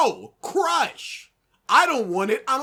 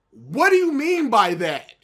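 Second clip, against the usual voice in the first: louder, baffled asking; exasperated question; 7 dB louder than usual. Retold or imitated. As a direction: demand an explanation, fed up. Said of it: "You have to ask".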